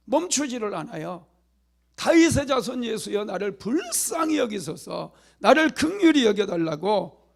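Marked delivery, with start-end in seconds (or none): 2.0-7.3 higher, loud pleading cry; shouting for mercy. Acted. Beggar keeps crying to Jesus despite crowd, loud plea. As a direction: keep crying out, won't stop. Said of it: "크게 소리를 지르는 거예요".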